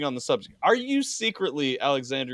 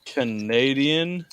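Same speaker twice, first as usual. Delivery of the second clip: mock Canadian accent; much slower than usual. Echoes his word, teasing.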